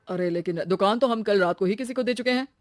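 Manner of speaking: lightly voiced male landlord; matter-of-fact shop owner. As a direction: turn her down plainly. (दुकान मालिक का लहजा)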